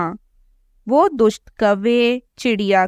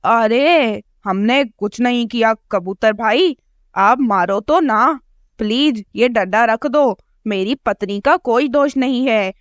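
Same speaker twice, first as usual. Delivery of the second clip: scared crow. Acted. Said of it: "डर जाता है".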